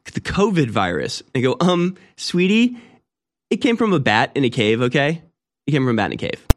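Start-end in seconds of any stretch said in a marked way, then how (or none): 1.6-6.4 smug. Acted. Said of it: "they just kinda get smug".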